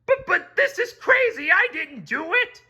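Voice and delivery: very high, loud frantic crab; a terrified crab pleading; stammering panic. Acted. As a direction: stammer your innocence in panic. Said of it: "stammered Mister Krabs".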